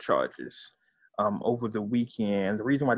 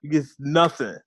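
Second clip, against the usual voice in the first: impression of a singer; 3 semitones higher than usual. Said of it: "it's the singer".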